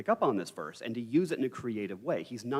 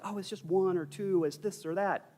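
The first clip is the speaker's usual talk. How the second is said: higher-pitched mock dismissal; imagined dismissive student; 8 semitones higher than usual. Lecturer voicing students who assume few options, mock dismissive. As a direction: lightly imitate someone brushing it off. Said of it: "So if you're like".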